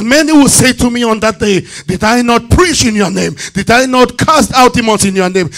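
driving, emphatic scripture recital; forceful preaching. Acted. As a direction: build the pleas into a commanding rebuke. Preaches a Bible passage at force.

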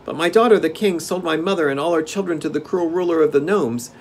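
put-on high-pitched child's voice; little prince. A narrator's reading. Boy prince tells Dorothy his past, high-pitched. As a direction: recount it in a high boyish voice.

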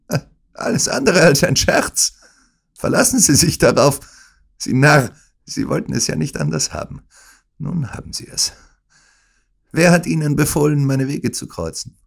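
villain sneering at his victim; gloating anger. Acted. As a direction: spit out the triumph. Smith reveals his crime.

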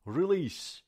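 ریلیس ending with a crisp s sound; teacher's corrected ریلیس; correct pronunciation. Shown as a demonstration. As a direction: say ریلیس with a clear s at the end, no z. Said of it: "سی هست آخرش".

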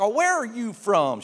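lightly voiced sweet older woman; imitating Texan lady. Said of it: "She's like".

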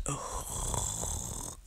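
very soft, low, breathy groan; groaning sigh. Acted. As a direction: let out a long, weary "ugh". Body giving in to germs.

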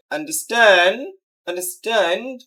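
"understand" with the weight on STAND; stress on second part. Shown as a demonstration. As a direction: hit the last syllable of "understand". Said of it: "second পার্টে হবে". ("understand"-এর শেষ অংশে জোর)

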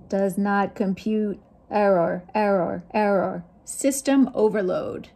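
lightly voiced robot, steady, even beats; a hint of a glitching machine, error error error; robot speak. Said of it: "Some more robot speak".

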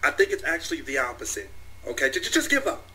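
hint of a smug anime villain. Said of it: "I'm not even talking in my anime voice anymore".

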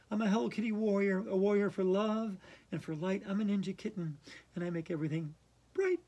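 earnest chant of affirmations; a mild solemn affirmation; mantra recital. Acted. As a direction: recite it like a sincere self-help mantra. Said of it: "I'm going to say my mantra".

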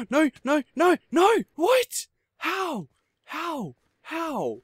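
shrieking high and loud, then falling off; real fright, squealing in disbelief; panicked screaming at the game; terrified. Real, not acted. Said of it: "I'm freaking out more than usual".

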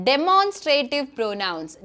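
teacher's slow model word; slow announcement. Shown as a demonstration. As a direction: spell out each syllable slowly. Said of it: "നമ്മൾ പഠിക്കാൻ പോകുന്ന ടോപ്പിക്കിൻ്റെ പേരാണ്".

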